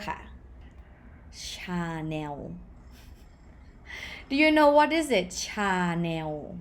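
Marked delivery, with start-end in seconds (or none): 1.5-2.4 "Chanel" as cha-new, drawn out with final w; low, stretched "Chanel" ending in w; Thai pronunciation. Shown as a demonstration. Teacher giving another example, Thai pronunciation. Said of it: "with vowel ending consonant". 5.3-6.6 "Chanel" as cha-new, drawn out with final w; Thai pronunciation. Shown as a demonstration. Teacher asking if learners know it, Thai pronunciation. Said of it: "with vowel ending consonant".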